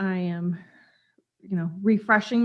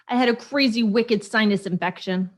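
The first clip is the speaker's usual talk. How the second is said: badly faked Boston accent. Shown as a demonstration. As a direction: have a half-hearted go at a Boston accent. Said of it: "That's my Boston accent".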